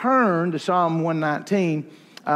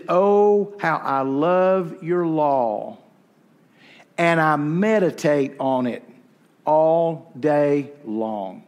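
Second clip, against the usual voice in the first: reverent reading; 2 semitones lower, slower than usual. Acted. Reading the psalm verse.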